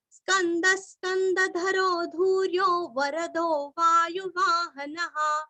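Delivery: steady, even chant of the shloka; measured devotional chanting; Sanskrit recitation. Acted. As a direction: intone each line evenly for pupils to follow. Teacher chants the verse for repetition.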